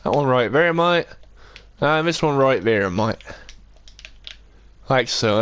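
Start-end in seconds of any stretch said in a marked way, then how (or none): 0.0-3.2 lightly put-on Bristol accent; mock West Country Bristol lilt. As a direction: repeat it playfully in a broad Bristol accent. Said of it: "That nice Bristol accent".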